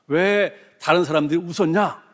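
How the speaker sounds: angry confrontation. Retold or imitated. Speaker confronting his friend over the laughter, mildly angry. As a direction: re-enact pressing a friend for an answer, a touch heated. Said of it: "화가 이렇게 나가지고 친구를 불러다가, 따져 물으니".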